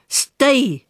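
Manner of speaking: curt, sharp order; harsh command. Acted. Eunice orders the robot to stay put, harshly. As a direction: bark it at the robot dog-style. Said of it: "she told him harshly".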